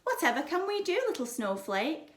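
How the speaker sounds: put-on mama fussing over her girl; doting mama. A narrator's reading. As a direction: coo over the child. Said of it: "said Mama".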